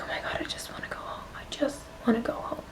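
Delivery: soft, breath-filled, half-whispered retelling; quiet plea. Retold or imitated. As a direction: retell it under your breath, nearly whispering. Retelling her wish to escape embarrassment.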